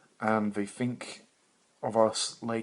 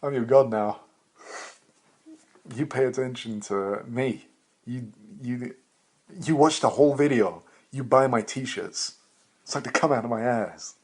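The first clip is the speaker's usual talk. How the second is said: louder, raised hammed-up commands; mock god commands; 3 semitones higher, 4 dB louder than usual. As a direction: boss the viewers like a tyrant god.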